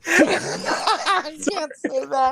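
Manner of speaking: muffled through hands; hand over mouth. Real, not acted. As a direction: speak behind your hands. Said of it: "if you put your hands over your mouth and say it like that".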